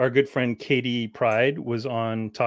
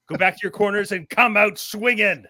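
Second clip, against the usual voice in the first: referee voice; 6 semitones higher than usual. Pretend. Referee instructions before bout.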